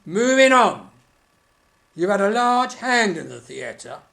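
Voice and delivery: shrill Punch and Judy squawk; squeaky puppet voice. Acted.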